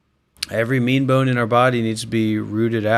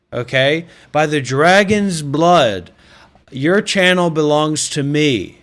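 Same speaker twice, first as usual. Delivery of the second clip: mock royal decree; 3 dB louder than usual. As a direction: declare it like a self-crowned emperor. Grandiose dragon-blood ruler rant.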